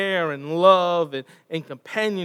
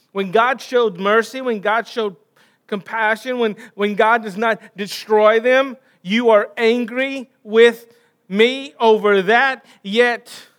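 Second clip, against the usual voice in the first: rising rebuke; 4 semitones higher, 7 dB louder than usual. Acted. God rebukes Jonah, rising.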